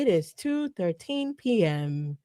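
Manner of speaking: slow, soft robotic readback; stenographer voice. Retold or imitated. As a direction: read it like a court stenographer. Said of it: "The way you were doing the stenographer voice".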